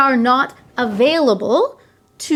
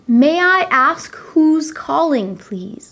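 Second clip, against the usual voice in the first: polite; slower than usual. Shown as a demonstration. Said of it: "a very polite way".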